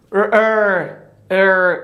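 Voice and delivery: ار rounded lips, tongue back; English R sound. Shown as a demonstration. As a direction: repeat ار slowly as a round English R. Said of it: "تانگز خود باید بک ببریم". (ار با زبان عقب)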